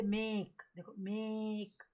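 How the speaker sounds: मेक said slowly with a stretched A; long A demo. Shown as a demonstration. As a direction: draw out the vowel in मेक as a long "ay". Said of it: "long ए का pronunciation". (मेक में ए को खींचकर लंबा बोलें)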